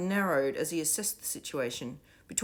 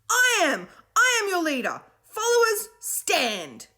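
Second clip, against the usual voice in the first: high, loud order to stand; commanding shout; 10 dB louder, slower than usual. A narrator's reading. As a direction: command the crowd to rise. Will ordering children up.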